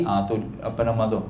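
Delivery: ordinary delivery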